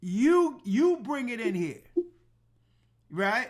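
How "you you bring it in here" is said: firm demand. Retold or imitated. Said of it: "And I said it just like that".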